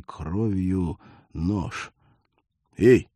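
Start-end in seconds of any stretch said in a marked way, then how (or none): 2.8-3.1 hoarse wheeze. Acted. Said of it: "прохрипел парень".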